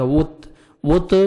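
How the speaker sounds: وت slow with a light تا and no bounce; clipped tajweed stop without qalqalah. Shown as a demonstration. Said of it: "double sound نہیں آ گیا".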